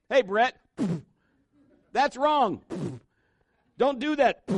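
mock-stern God telling off a child; stern old-man God. Preacher playing his childhood picture of a big-stick God, mock scolding. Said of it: "big old man in heaven with a white beard and a big stick".

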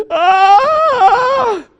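loud, high mock child scream; child's scream. Young daughter screaming at her frightened mother, loud high scream.

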